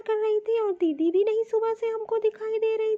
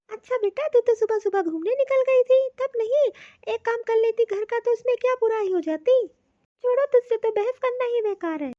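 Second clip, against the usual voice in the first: mother scolding; 3 semitones higher, 3 dB louder than usual. Acted. Mother scolds her daughter.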